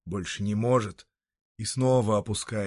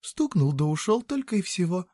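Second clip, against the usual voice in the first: high-pitched coaxing woman; soft persuasion; 8 semitones higher than usual. Acted. Woman softly persuading a reluctant passer-by, high coaxing voice. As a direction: make it sound easy, persuading in a raised voice. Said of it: "мягко убеждает она".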